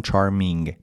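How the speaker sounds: no hard g in "چارمینگ", just a nasal ng; nasal ending. Shown as a demonstration. («چارمینگ» با نگِ تودماغی در آخر)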